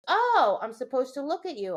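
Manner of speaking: voicing the dog. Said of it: "My dog goes".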